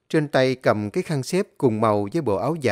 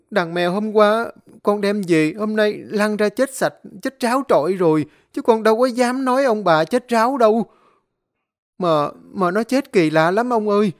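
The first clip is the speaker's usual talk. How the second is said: high, loud frightened pleading; 7 semitones higher, 4 dB louder than usual. Acted. Servant pleading with master not to hit him, frightened. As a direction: beg and explain in a rush of fear.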